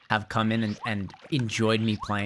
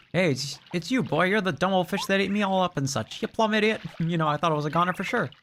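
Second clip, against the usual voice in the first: bug character voice; 8 semitones higher than usual. Acted.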